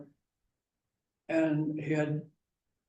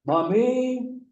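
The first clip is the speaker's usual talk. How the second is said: put-on high, louder child's call; little boy calling mommy; 8 semitones higher, 7 dB louder than usual. Four-year-old calls his mom, lightly voiced child. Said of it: "what does a four-year-old boy do?".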